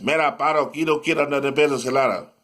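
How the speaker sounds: lightly mocked Spanish accent; put-on Spanish speaker. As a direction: imitate someone talking Spanish. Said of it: "We don't talk Spanish".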